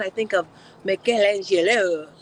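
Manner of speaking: slow, put-on French accent, not quite landing. Describing a workout program to the chat, the speaker tries a French accent. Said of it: "I was trying to do French".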